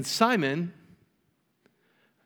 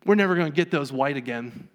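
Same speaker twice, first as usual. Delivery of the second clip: fussy churchgoers; 3 semitones lower than usual. Acted. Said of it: "some people in the back are going".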